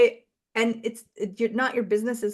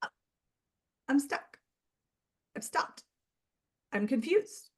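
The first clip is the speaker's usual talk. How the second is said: small, soft and deflated, trailing off; stuck business voice; 5 semitones higher, 7 dB quieter than usual. Pretend. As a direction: sound lightly lost and stuck. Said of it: "Or is it like".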